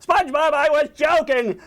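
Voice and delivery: high, hammed-up exasperated yell; angry outburst. Squidward finally gets through to SpongeBob, angry outburst. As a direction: yell over the screaming. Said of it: "Squidward's getting angry".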